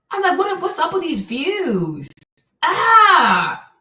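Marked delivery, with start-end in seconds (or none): 2.6-3.7 loud, high yell of exasperation; exasperated "ah", pitched up high; frustrated scream. Real, not acted. Exasperated rant about poor views.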